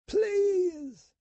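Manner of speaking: put-on high, pleading girl's voice; frightened plea. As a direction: beg through the fear. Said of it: "she said".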